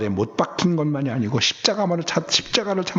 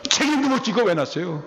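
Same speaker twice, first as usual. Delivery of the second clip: higher-pitched mock reproach; retold complaint; 7 semitones higher than usual. Grown child complains to parents about being born, mock reproach. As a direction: imitate a child blaming the parents.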